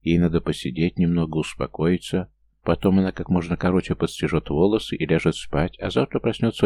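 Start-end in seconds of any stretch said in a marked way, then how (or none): none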